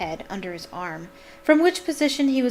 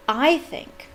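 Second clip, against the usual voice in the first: slightly raised, hasty interjection; hurried; 5 semitones higher, 4 dB louder than usual. A narrator's reading. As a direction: jump in quickly. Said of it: "said Harry hurriedly".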